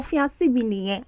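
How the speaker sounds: fiancé said fee-AN-see inside a Yoruba phrase; Yoruba pronunciation. Retold or imitated. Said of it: "the way we say it in Yoruba".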